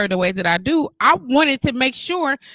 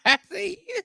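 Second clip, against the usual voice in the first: teasing friend; 9 semitones higher, 5 dB quieter than usual. Retold or imitated. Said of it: "When your friends show up like".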